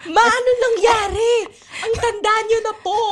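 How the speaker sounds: crying out in shock at mother's face. Acted. Daughter crying out to her suddenly aged mother, alarmed.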